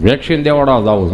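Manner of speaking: hint of a low character voice; friend Gabho. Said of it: "Gabho રહ્યો ને, કોવિડમાં મારી પાસે આવીને મને કહે".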